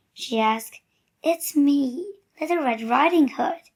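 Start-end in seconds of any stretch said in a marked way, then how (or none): 1.2-3.6 put-on wolf lightly faking a little girl, a bit higher; a hint of a sweet little girl, slightly raised pitch. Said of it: "said the wolf in a little girl voice".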